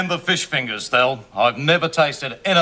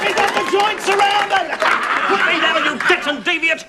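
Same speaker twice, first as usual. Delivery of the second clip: hearty teasing greeting; 13 semitones higher than usual. Acted. Bob loudly teasing old Ted.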